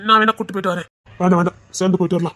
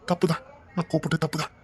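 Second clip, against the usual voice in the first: soft apology; 4 semitones lower, 9 dB quieter than usual. Acted. Husband apologizes softly after quarrel.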